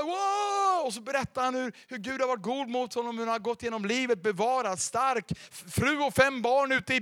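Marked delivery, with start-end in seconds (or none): 0.0-0.9 excited wow. Retold or imitated. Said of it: "han var".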